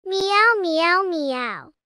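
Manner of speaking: playful meows; cat meowing. Pretend. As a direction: meow like a kitten. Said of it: "Say meow to call Mama Cat".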